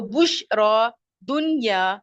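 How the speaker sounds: बुशरा, दुनिया drawn out syllable by syllable; बुशरा, दुनिया slowly enunciated to show the matching sound; pronunciation demo. Shown as a demonstration. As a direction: say बुशरा and दुनिया slowly, lingering on the final long aa. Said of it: "इसका तलफ़ुज़ सुने".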